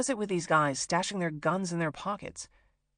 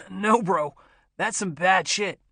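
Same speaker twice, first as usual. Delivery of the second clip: laughing; 6 dB louder, slower than usual. Acted. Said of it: "Bo was laughing".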